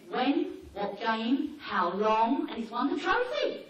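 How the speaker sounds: a dog showing off its trophy; bragging dog. Retold or imitated. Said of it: "the dog said".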